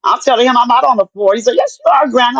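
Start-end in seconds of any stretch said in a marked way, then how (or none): 1.6-2.4 retold contradiction, pitched up high; mock bickering, higher-pitched; arguing grandson. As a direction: insist back in a higher voice, imitating a grandson. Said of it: "me and my grandson was arguing".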